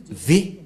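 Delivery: V set apart by pauses; V pronunciation. Shown as a demonstration. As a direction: state the V sound on its own. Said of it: "comment ça se prononce?".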